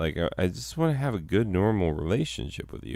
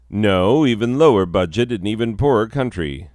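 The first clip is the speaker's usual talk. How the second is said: louder insistent correction; emphatic; 2 semitones higher, 6 dB louder than usual. Acted. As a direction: punch out the no.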